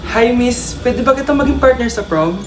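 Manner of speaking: put-on low boyish voice. Boy asks girl to prom.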